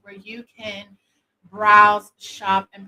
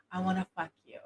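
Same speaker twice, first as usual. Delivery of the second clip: whispering; 2 semitones lower, 9 dB quieter, much faster than usual. Shown as a demonstration. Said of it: "whisper in his he-, in his ear".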